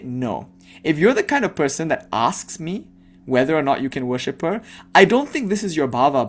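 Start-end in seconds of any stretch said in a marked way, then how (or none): 0.0-0.5 stern. Shown as a demonstration. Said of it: "I think I'm gonna be stern and say".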